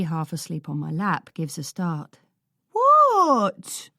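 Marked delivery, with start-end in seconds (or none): 2.7-3.9 much higher, louder mock-innocent what; feigned innocence. A narrator's reading. Boy caught kicking the swing, fake innocent. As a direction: play dumb, all innocence. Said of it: "with feigned innocence".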